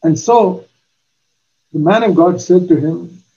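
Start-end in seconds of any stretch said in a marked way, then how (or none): none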